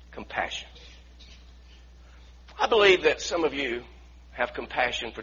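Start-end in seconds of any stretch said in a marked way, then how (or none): 0.1-0.7 breathed. Real, not acted. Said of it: "single word, breathed".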